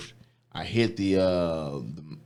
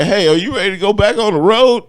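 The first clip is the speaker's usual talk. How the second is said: high, loud fake-cheery dispatcher voice; mock chipper caller; 13 semitones higher, 9 dB louder than usual. Mocking the company's call to him, high and bright.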